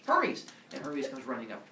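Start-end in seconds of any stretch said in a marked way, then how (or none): 0.1-0.4 high, loud call across the palace. Acted. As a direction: shout for the servant. Zeus calling servant.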